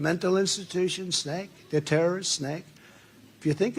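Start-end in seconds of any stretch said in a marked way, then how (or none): 1.2-1.5 soft, rising snake drop; quiet punch word. Acted. Rally speaker dropping the word snake as a quiet punch line. 2.3-2.6 soft, rising snake again; quiet punch word. Acted. Rally speaker repeating snake quietly as a refrain.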